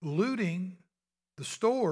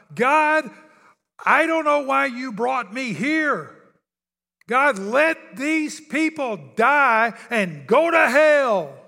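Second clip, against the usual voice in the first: booming, very loud, slow, deliberate shout; 6 semitones higher, 12 dB louder than usual. Retelling what someone shouted to God while his community burned: imitating someone shouting. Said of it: "he literally shouted out to God".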